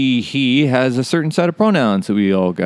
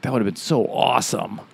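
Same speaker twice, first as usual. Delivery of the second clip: lightly voiced president, softer; president impression; 4 dB quieter than usual. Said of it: "impersonated a president".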